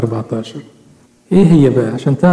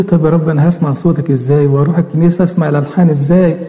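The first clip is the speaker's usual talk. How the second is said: mildly acted fluster. Man asking God how he would manage without hearing, mildly flustered. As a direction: run of worried questions, stumbling near the end. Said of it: "دخل في ارتباك رهيب جدًا".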